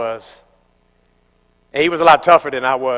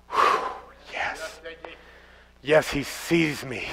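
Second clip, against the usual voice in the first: relieved sigh; 14 dB quieter, slower than usual. Retold or imitated. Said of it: "they had to go".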